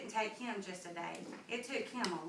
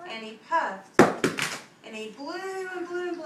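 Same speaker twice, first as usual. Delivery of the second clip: louder, higher, pushing hard; straining narration; 6 semitones higher, 9 dB louder than usual. A narrator's reading. Narrator acting out the wolf blowing hard. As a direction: act out blowing with all his might.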